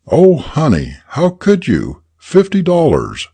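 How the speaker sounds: high, tearful pleading; crying. Acted. Mother crying at her son over lost money. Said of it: "she was crying".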